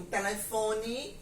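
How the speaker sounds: "telefone" with the final E said as I; final vowel of "telefone" turned to a light "ee"; Pernambuco pronunciation. Shown as a demonstration. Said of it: "eu estou pronunciando o E com som de I".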